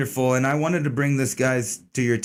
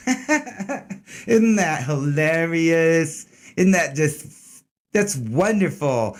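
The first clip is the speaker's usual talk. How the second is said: sarcastic laughing; 3 semitones higher, much slower than usual. Real, not acted. Sarcastic reaction to news story.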